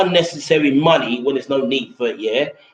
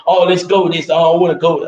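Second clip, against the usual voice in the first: higher, louder impatient whine, imitating a friend; retelling a friend's whining to go, higher and louder; mock impatient whine; 4 semitones higher, 5 dB louder than usual. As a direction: nag to leave right now, hammed-up and loud. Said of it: "he kept on rushing the situation".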